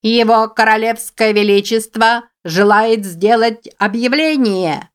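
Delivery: high squeaky announcer rabbit. A narrator's reading. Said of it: "писклявый голосок".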